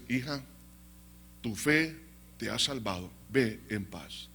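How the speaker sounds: low, soft, unhurried blessing; gentle reassurance. Acted. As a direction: send her off tenderly and softly. Jesus gently blesses the healed woman. (bendición suave y pausada)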